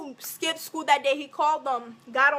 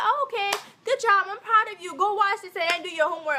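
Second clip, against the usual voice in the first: lightly voiced mom, pitched higher; approving mom; 5 semitones higher, faster than usual. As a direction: praise the child in a higher voice. Mom praising her in retold chat.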